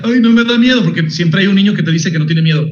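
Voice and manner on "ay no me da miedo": put-on brave kid scoff. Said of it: "decía".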